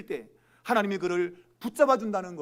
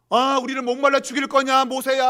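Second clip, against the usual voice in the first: raised, louder mock grumbling at Moses; defiant protest; 4 semitones higher, 7 dB louder than usual. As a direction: imitate thirsty Israelites turning on their leader. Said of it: "하고 막 대들었잖아". (모세에게 대드는 원망 섞인 외침)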